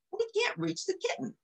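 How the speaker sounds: a soft, high sigh. Acted. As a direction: let the line droop on a sigh. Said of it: "sighed Lady".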